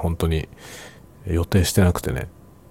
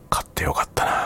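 whispering. Real, not acted. Whispered aside to himself.

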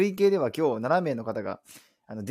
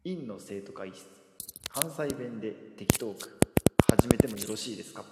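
title call; 3 semitones lower than usual. Shown as a demonstration. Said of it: "じゃあタイトルコール".

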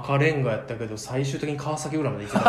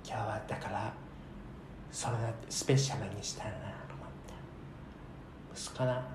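getting softer until whispered; fading to a whisper; 4 semitones lower, 14 dB quieter than usual. Retold or imitated. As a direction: fade out to a whisper. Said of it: "ちょっとずつ声ちいちゃくなんだよ".

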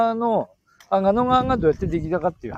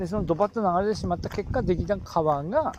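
Tsugaru dialect; 3 dB quieter than usual. Acted. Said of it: "やって、津軽弁で。".

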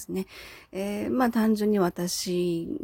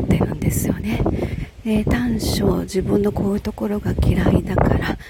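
loud, raised voice outdoors; shouting over wind; 5 dB louder than usual. Real, not acted. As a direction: project your voice over strong gusts. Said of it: "あまりにも風が強くて、私の声が届いているのかな".

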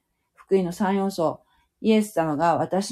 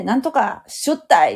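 Hakata dialect; 3 semitones higher, 3 dB louder than usual. Shown as a demonstration. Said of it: "博多弁で".

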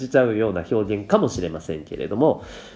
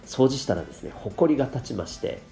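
stuffy blocked nose; talking through a cold; nasal voice. Real, not acted. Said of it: "かなり鼻声ですよね。".

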